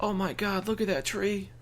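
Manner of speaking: mock amazement. Mock awe at talking tree.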